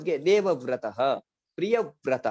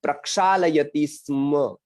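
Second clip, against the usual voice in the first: slow model; 4 dB louder than usual. Shown as a demonstration. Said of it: "ऐसा दो तरह से बोल सकते हैं".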